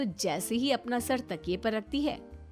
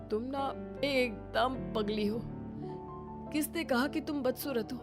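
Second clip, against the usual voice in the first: tender consoling; 7 dB quieter than usual. Acted. Husband consoles weeping wife.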